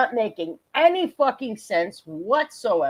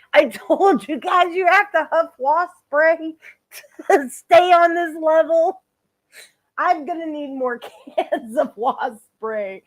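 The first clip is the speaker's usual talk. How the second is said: laughing; 5 semitones higher than usual. Real, not acted. Host laughing crying.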